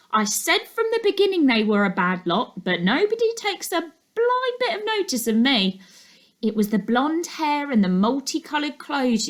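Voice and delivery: a nosy neighbour rattling on to anyone who'll listen; gossipy neighbour. Acted. Gossiping neighbour monologue in story.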